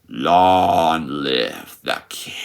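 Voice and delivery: low, drawn-out menacing murmur; threatening whisper. Retold or imitated. Scar whispering to Mufasa before the drop, threatening and slow. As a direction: lean on each word slowly and softly, a quiet threat. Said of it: "he whispers with a very threatening tone".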